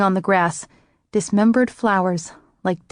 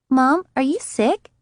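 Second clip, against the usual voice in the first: put-on worried little girl; 6 semitones higher, slower than usual. Child worried about mother.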